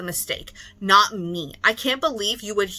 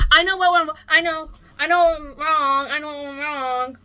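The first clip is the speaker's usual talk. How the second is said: sarcastic mocking; 6 semitones higher than usual. Mocking the seller.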